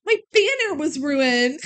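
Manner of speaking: mock whining. Mimics the upset teacher.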